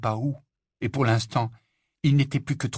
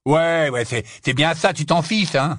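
loud, raised sarcastic agreement; scornful dismissal; 6 semitones higher, 6 dB louder than usual. Acted. Ron brushes off Harry's explanation, scornful. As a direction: drag out the first word, then accuse.

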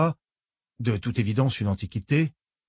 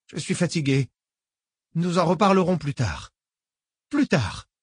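put-on higher, sweetly menacing old lady; genteel old woman, falsely kind; 6 semitones higher than usual. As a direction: purr it like a polite old villain. Old woman retreats shaken.

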